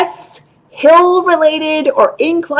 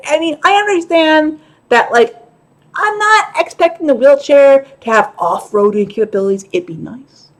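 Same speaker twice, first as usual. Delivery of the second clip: ordinary delivery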